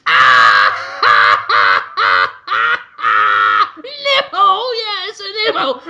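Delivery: loud guffaws swinging from low to falsetto; hysterical mock laughter. Boardroom laughing at the nipple, exaggerated hysterical laughter. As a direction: laugh helplessly, shrieking the words. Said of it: "everyone in the boardroom is just laughing".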